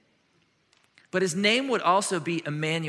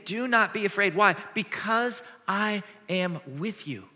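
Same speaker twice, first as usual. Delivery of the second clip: earnest, slower reassurance on "Do not be afraid."; mean every word of it; sincere promise; 3 semitones higher than usual. Retold or imitated. God truly reassuring his people, sincere and steady. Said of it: "He's saying".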